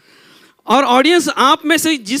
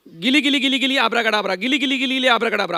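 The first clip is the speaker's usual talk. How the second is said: put-on kids party magician. Shown as a demonstration. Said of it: "okay, मंत्र ठीक से सुनो।".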